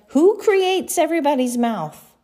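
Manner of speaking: God mildly exasperated with excuses; God, a little irritated at Moses's excuses. Acted. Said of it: "God begins to get a little bit irritated".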